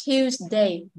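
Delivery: Tuesday with a light hiss between the syllables; TUES-day, keeping the inner sibilant; light middle Z sound. Shown as a demonstration. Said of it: "Có nhẹ phía sau ở phía giữa".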